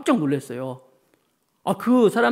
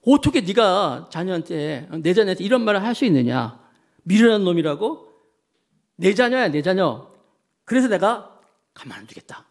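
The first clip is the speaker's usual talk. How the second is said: indignant God. Acted. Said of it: "하나님 입장에서 어떠실까?".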